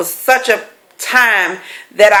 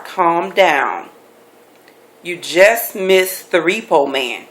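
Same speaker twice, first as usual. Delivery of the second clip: calm official voice; 4 semitones lower, slower than usual. Retold or imitated. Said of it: "It's like".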